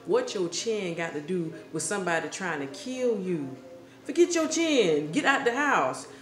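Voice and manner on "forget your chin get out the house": much higher, louder outburst; exasperated shout. Acted. Shouting advice at the pig in the story, exasperated. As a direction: yell it at the silly pig.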